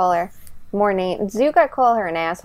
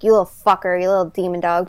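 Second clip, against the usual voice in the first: gentle mock scold of a dog; mild scolding; faster than usual. Shown as a demonstration. Owner teasing her dog, mild scolding. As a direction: tease the dog without real bite. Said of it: "how my voice got right there".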